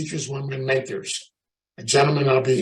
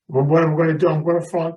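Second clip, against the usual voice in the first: louder mock-tearful panic; mock crying; 2 semitones higher, 4 dB louder, faster than usual. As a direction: imitate a tearful nun fretting over failing. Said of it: "The poor nun next to me is crying".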